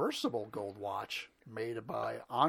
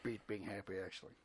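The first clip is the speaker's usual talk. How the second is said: quiet; 7 semitones lower, 11 dB quieter, faster than usual. Real, not acted. Quiet correction, sore throat.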